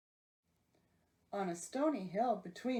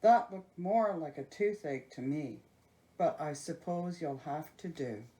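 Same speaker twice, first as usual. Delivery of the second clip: grunting giant; 4 semitones lower than usual. Acted. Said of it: "grunted the giant".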